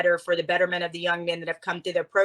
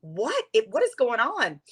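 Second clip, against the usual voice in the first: higher, dismayed disbelief; retold thought, a touch higher and dismayed; dismayed inner thought; 4 semitones higher than usual. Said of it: "And I thought".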